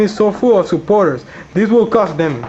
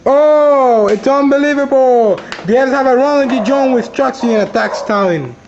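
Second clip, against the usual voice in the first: excited; 3 semitones higher than usual. Acted. Sudden betrayal in match.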